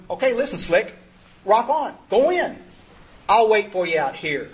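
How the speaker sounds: lightly voiced easygoing God. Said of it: "like God was going".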